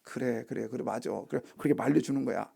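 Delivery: soft, low muttered relief; inner voice. Acted. Angry parent secretly glad to be stopped, soft inner voice. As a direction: say it privately, as a secret thought. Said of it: "속으로는".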